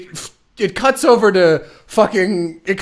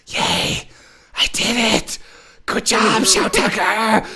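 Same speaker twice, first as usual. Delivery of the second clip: higher, slow, smug self-congratulation; mock proud scientist; 5 semitones higher, slower than usual. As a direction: pat yourself on the back, dragging it out. Mocking scientist's self-praise.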